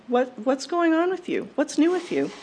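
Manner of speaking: lightly voiced grandmother, lifted pitch; eager grandmother's question. Gram asking a visitor for news, eager. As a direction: ask as a genuinely curious grandma. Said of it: "she'd ask what was new with you".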